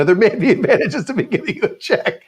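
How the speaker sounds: high voice, laughing through it; mock-echo while cracking up. Mimics dealer's phrasing, laughing.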